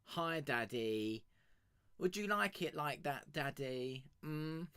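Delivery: slow, breathy-free teasing come-on; flirty mock voice. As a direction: lay on the seduction mockingly. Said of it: "accent tops it off".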